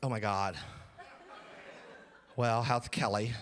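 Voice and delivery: put-on nasal voice. Retelling a conversation, the speaker imitates her questions in a nasally voice. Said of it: "[Nasally voice]".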